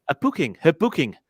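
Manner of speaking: booking with a Geordie vowel, short oo like in book; Geordie accent. Real, not acted. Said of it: "my Geordie accent is coming through here".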